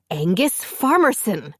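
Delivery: loud full-name bellow; wife hollering her husband's full name; calling him out sharply. A narrator's reading. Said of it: "His wife's bellow".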